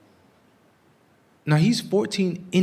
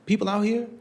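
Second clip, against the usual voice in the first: imitating a cop; 7 semitones higher than usual. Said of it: "they said".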